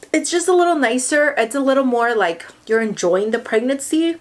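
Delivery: talking through heartburn; uncomfortable, a burning chest. Real, not acted. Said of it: "I'm sorry, heartburn".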